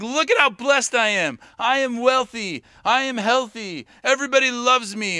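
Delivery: boastful. Retold or imitated. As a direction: show off how wonderful life is, imitating a braggart. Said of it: "as other people are boasting".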